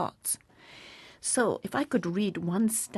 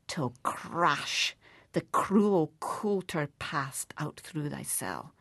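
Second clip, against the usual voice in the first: poem recitation. Acted. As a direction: build to the crash of the plough. Reciting To a Mouse.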